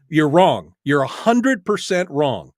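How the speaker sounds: loud, firm, slowing on hundred percent; forceful on-air correction; emphatic loud rebuttal. Real, not acted. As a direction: shut the caller down flat. Host cuts off arguing caller.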